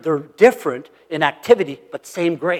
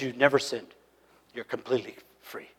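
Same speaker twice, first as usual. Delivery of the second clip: soft voice of God; 5 semitones lower, 11 dB quieter than usual. Retold or imitated. God's words voiced softly.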